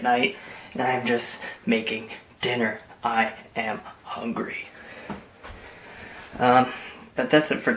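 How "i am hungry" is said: whispering. Real, not acted. Late dinner aside.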